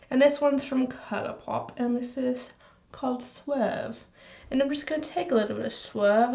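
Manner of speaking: put-on loose, wandering English accent; put-on British accent. Vlogger doing her eyeliner in a mock British accent. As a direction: keep up an amateur British accent. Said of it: "it will not go away".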